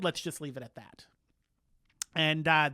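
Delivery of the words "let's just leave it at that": hushed, tired whisper; a whispered weary king brushing it off; whispered dismissal. Retold or imitated. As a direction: let it drop under your breath.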